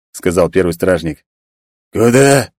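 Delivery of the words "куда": short, curt growled question; genie growl. Acted. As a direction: bark it like an angry fire spirit. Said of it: "коротко рыкнул джин".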